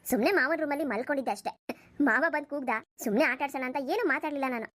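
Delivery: low-pitched motherly voice, brushing it all off; an older mother calming her son and daughter-in-law; mother telling her son not to make a fuss; easygoing mother. Acted. Mother-in-law soothing everyone.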